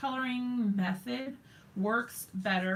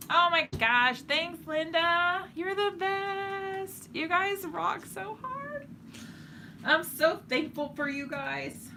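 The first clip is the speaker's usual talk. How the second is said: much higher, slow, gushing gratitude; gushing thanks; 9 semitones higher than usual. Real, not acted. Thanking viewer Linda for her message, high gushing delight. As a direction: gush over a viewer's kind words.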